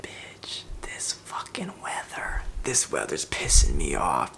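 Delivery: muttered swearing under the breath; whispered cursing. Real, not acted. Vlogger grumbling to herself about the freezing weather, whispered swearing. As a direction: hiss the curses quietly, fed up.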